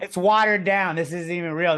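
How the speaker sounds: high, loud scoffing British dad; mocking British dad. British dad scoffing at watered-down American beer, high mock voice. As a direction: sneer it like a pub dad. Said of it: "They're just like".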